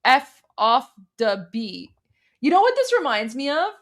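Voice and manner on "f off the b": mock broken English. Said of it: "it's like".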